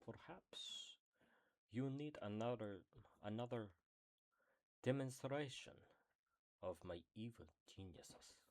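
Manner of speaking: attempted evil-genius alien voice; halting, badly faked villain scientist; Jumba. Trying a mad scientist's voice, halting evil-genius impression. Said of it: "I cannot do Jumba's voice".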